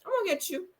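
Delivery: same threat jumped up high and sing-song; high mocking threat. Imitating Diana taunting Sutton, high and mocking. Repeated threat, second take.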